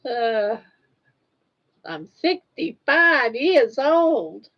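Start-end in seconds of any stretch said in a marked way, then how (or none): 1.8-4.5 slow mock old lady voice; playing an old lady for the camera, slowly. Playful old woman. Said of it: "Try to talk like an old lady".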